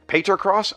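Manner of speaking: "Pater Cross?" as PAY-ter, high and tentative; unsure pronunciation. Real, not acted. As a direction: try out "Pater Cross?" as a question. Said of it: "I still can't do it".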